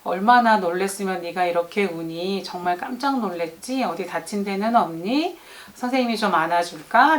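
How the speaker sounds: 놀란 아이를 부드럽게 달래듯; 조용히 어루만지는 말투; 달래는 목소리. Shown as a demonstration. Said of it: "달래는 모습을 제가 먼저 보여줬어요". (우는 아이를 안아 주며 달래는 선생님 목소리)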